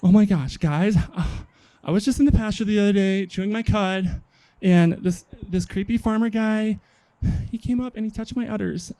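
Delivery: hammed-up high-pitched scandalized female voice; upset cow confiding. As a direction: spill it to the girls, appalled. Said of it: "she went and told her other girlfriend".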